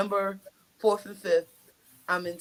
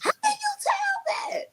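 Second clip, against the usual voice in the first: much higher, laughing through the quote; laughing question. Retold or imitated. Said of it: "I'll be like".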